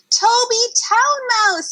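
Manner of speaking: high, slow, excited call; excited greeting. Acted. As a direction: call out to him with delight.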